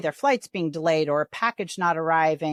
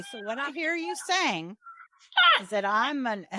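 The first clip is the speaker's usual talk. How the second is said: mock therapist; 3 semitones higher than usual. Host jokingly mirroring an insulting caller, mock calm. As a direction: parrot the insult back in a mock-soothing tone. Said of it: "you should say".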